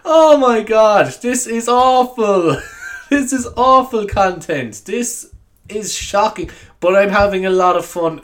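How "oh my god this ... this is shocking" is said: high, slow, drawn-out mock horror; amused dismay. Real, not acted. Podcaster appalled at own content, drawn-out mock horror. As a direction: groan it out high and slow, half laughing.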